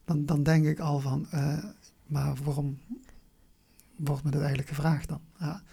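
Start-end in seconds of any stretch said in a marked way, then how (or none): none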